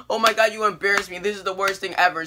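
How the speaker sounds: lightly acted indignation; mock mad. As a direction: retell a sister's upset protest. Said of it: "She's, like, pretty mad".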